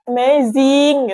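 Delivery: retold amazement, stretched out slowly; awed. Retelling her awed reaction to birth.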